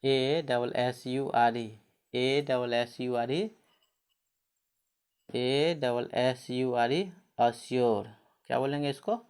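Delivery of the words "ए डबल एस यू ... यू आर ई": slow spelling. Shown as a demonstration. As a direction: spell A double S U R E very slowly. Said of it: "जैसे, है ना, जैसे". (धीरे-धीरे अक्षर-अक्षर)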